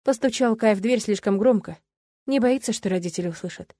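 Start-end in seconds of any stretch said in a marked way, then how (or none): none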